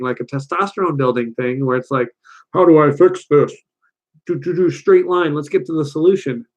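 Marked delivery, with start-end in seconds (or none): 2.5-6.4 mock man fixing things. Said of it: "more of a man thing".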